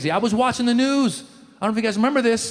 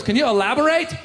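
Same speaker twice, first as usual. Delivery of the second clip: mock reporter; 5 semitones higher than usual. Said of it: "The reporter goes".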